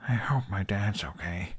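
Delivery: soft whispered mumble to himself; mumbled. A narrator's reading. Boy alone under the stars, hushed worried mumble. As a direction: breathe it up at the stars, almost unvoiced.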